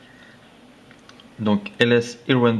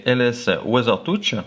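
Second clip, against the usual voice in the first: French-accented English. Real, not acted. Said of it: "excusez-moi pour mon anglais".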